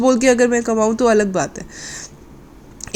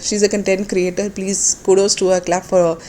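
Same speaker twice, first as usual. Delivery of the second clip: drawn-out mock applause, very slow; sarcastic slow praise; much slower than usual. Real, not acted. Mocking the content creator with slow sarcastic praise. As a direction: hand out fake kudos slowly.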